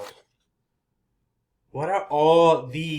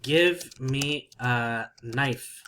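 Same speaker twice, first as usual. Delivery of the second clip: blunt demand; much slower than usual. Shown as a demonstration. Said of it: "is a little bit rude".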